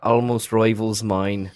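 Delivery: put-on Irish accent. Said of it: "I'll just give you Irish".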